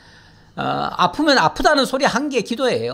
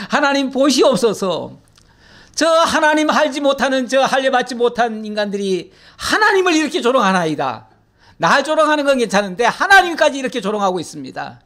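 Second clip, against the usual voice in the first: imitated earnest appeal to God; higher-pitched, retold prayer of complaint; Hezekiah; 4 semitones higher than usual. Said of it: "하나님 앞에 펼쳐놓고". (하나님께 호소하는 기도 흉내)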